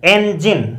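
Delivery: "इंजन" as en-jin, starting on e; correct pronunciation. Shown as a demonstration. Teacher repeating for students, "इंजन" clearly as en-jin. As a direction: open "इंजन" with e, not i. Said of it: "एक ही sound है".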